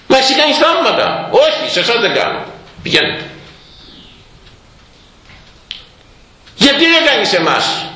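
high, insistent taunt; demanding scribes. Retold or imitated. The scribes demand a miracle from the Lord, high and insistent.

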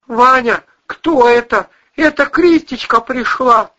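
high, put-on drunken mumble; mumbling drunk husband. A narrator's reading. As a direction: slur it like a drunk man calling from the next room. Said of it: "мямлил из гостиной Вась-Вась".

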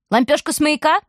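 can't believe it; wife shocked at the news; surprised. A narrator's reading.

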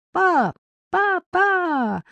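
very high, drawn-out call across the yard; desperate yell. A narrator's reading. Boy calling his dad to the table, piercing drawn-out yell. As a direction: shriek for dad from afar. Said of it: "огласил округу истошный вопль".

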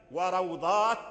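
وروضات as wa-raw-ḍāt, wāw without a vowel; silent wāw. Shown as a demonstration. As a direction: close raw before the held ā in وروضات. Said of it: "كلها الواو ساكن". (وروضات بإسكان الواو)

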